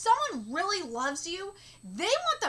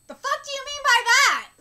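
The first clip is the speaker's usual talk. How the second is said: angry demand; 6 semitones higher, 9 dB louder than usual. Real, not acted. Angry reaction to the character.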